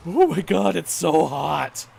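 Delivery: loud, high mock gasp of heat; slow, hammed-up burning mouth; mouth burning from spicy food. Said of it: "be like".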